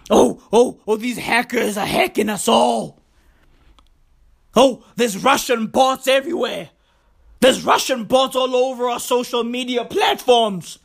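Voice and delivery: a hint of a fretful American moaning about bots; whiny mocking Americans. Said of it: "when I hear Americans complaining".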